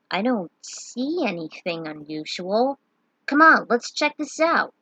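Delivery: lightly voiced knight, brushing off the danger; a hint of a bold hero pushing on; confident young knight.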